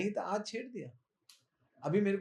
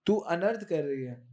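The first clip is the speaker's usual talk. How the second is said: scolding Dau. Acted. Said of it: "तो दाऊ जी बोले".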